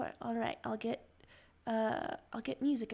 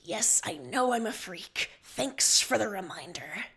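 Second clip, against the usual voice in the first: bitter, sarcastic retort; hissed; 4 dB louder than usual. Acted. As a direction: spit it out resentfully. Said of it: "you hiss".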